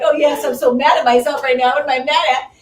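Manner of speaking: sarcastic. Retold or imitated.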